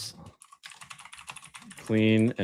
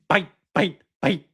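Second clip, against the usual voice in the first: high sing-song; 8 semitones higher than usual. Acted. Playful chant after "aye aye.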